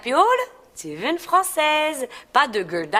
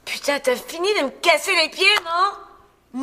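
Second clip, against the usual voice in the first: higher, irritated mock-Parisian French; affected Parisian accent; 6 semitones higher than usual. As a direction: snap back in a put-on Paris accent. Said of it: "c'est plus drôle, ton accent".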